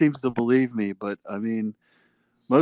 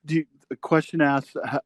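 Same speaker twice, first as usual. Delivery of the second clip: imitating Mike; 3 semitones higher than usual. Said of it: "Mike dipshit shtick where he's gonna be like".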